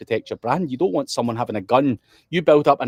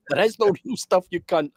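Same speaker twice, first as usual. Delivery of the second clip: mock exasperated retort; 6 semitones higher than usual. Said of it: "And you're like".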